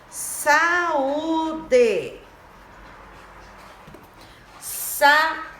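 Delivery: "saúde" split slowly into sa, Ú, de; drawn-out "saúde" for a class; stress on Ú. Shown as a demonstration. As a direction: sound out "saúde" syllable by syllable. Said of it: "aqui já é a sílaba tônica".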